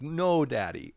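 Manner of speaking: put-on high little-kid voice saying no; child refusing dad. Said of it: "he goes like".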